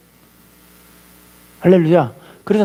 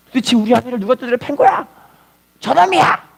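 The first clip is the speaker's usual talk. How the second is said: mock outraged demand, pitched up; angry husband; 4 semitones higher than usual. Husband bursting into the police station, acted anger. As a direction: storm in accusing, higher voice.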